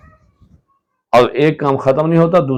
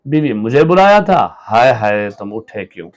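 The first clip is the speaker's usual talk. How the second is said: alarmed; 4 dB louder than usual. Acted. Wife alarmed at sick husband.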